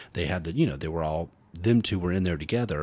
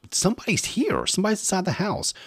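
much higher, alarmed and fast; panicked; 12 semitones higher, faster than usual. Retold or imitated. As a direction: blurt it out in a panic. Panicked report of an intruder.

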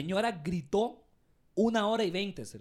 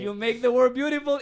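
scripted greeting; 3 semitones higher, 6 dB louder than usual. Retold or imitated. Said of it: "tenía que decirlo en cada llamada".

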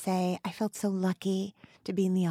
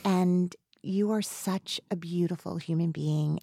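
heartfelt tribute; 2 semitones lower, 4 dB quieter than usual. Real, not acted. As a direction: speak softly, moved and sincere. Heartfelt tribute to her guest.

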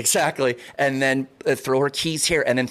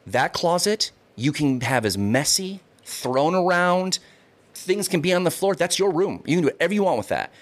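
retold lecture; 2 semitones higher than usual. Laying down a house rule.

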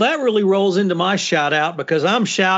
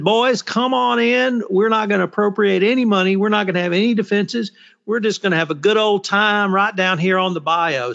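Southern twang; 2 semitones higher than usual. Retold or imitated. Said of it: "Southern twang that you put on there".

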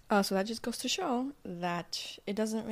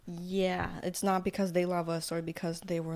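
ordinary talk, nothing marked

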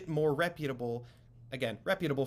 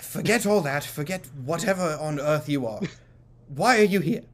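a touch louder, cutting him off; impatient shopkeeper; 4 dB louder than usual. Acted. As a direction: demand it, fed up. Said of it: "He goes".

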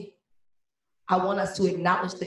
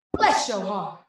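a measured Midwest falling line; Midwest mama; 4 dB louder, slower than usual. Acted. Poet quotes mama's veiled insult, restrained Midwest delivery. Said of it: "so Midwest, she said".

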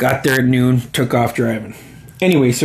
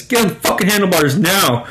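lightly voiced bossy jerk, pitched higher; true asshole; 6 semitones higher than usual. Narrator mimics himself ordering Ira onto handlebars, mock-bossy, higher. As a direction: toss off a mock-pushy order, a little higher. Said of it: "Like a true asshole says".

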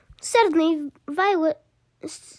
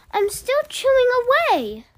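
put-on bratty girl voice; 9 semitones higher, 4 dB louder than usual. A narrator's reading. Child character, high voice.

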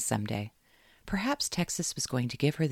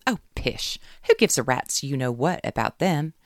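spewed; 2 semitones higher, 6 dB louder than usual. Acted. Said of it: "Caroline spewed into the phone".

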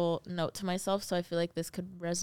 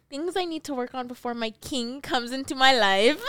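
laughing; 4 semitones higher, 3 dB louder than usual. Real, not acted. Reads corny line, laughing.

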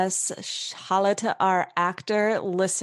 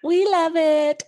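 voice changes mid sentence; 10 semitones higher, 8 dB louder, slower than usual. Real, not acted. Playful high exclamation.

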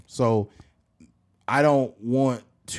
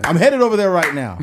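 loud threat; 5 semitones higher, 9 dB louder than usual. Acted. Boyfriend threatening to come.

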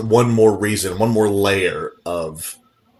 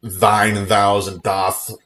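mock Shakespearean; slower than usual. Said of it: "he talked like a Shakespeare character".

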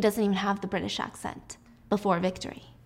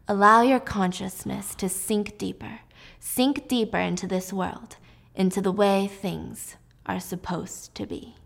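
hypnotic soothing voice. Retold or imitated. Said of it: "Frank's voice".

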